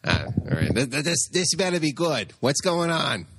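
a hint of a grumpy guy dragged onto the show; Flash. Host playing Flash, grudgingly joining the podcast, lightly voiced. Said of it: "Flash, get over here".

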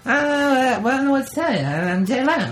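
light talk-show host voice; a hint of a late-night host; Jay Leno impression. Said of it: "Did you fucking get Jay Leno?".

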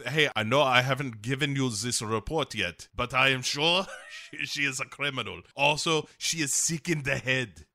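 mock German accent, breaking into a laugh; hammed-up hint of a German accent. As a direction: play Father as lightly German. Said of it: "give her a German accent".

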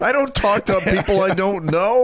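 high sing-song mom. Retold or imitated. Mother inviting a kid to play, high sing-song. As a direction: chirp like a doting mother. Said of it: "Mom, I'm seventeen".

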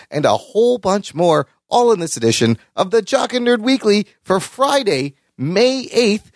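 crisp episode promo read; podcast intro read. Acted. Host teasing this week's episode to listeners, announcer read.

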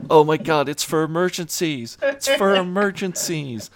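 high, frantic repeated plea; panicked protest. Retold or imitated. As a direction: panic as the flare is wasted. Will panics over the flare.

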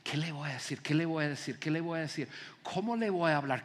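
soft, repetitive private fretting; acted thinking aloud, under the voice; anxious inner thoughts. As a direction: fret quietly to yourself before a date. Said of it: "estar pensando".

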